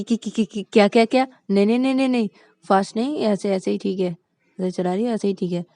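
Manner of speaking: panicky stammer. Acted. Panicked passenger begs to slow.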